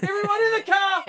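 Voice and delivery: high, strained mock shout; panicked dad. Dad ordering family into the car, panicked high yell. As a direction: yell it like a dad fleeing in embarrassment.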